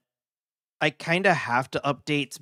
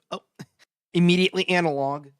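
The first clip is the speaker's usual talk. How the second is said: quick amused laugh; 6 semitones higher, 6 dB louder, much faster than usual. Real, not acted. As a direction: laugh it out fast. Laughs at game screen.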